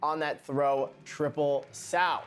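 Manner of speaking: light mock British accent over skating commentary; lightly faked British accent; recapping the Sheffield Grand Prix in a put-on British accent. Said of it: "This is my terrible accent".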